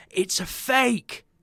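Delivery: shrill, very high, very loud scream. Retelling catching a fake note on the first transaction, re-enacting a scream at top of voice. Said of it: "I screamed, literally at the top of my voice".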